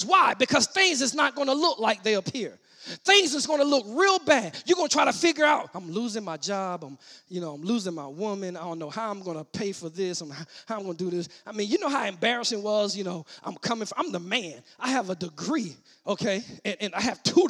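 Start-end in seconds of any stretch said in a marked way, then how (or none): 5.7-11.3 low, soft fretting; acted inner complaint, much softer; voiced worrying. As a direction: mumble worries to yourself. Voices a worried listener's thoughts.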